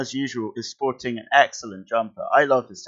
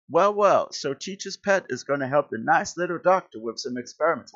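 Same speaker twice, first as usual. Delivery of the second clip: put-on Texan accent; 5 semitones higher than usual. Reading Flash taunting teacher's pet in a Texan accent. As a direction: taunt him like a Texan bully. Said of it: "Why has he got a Texan accent?".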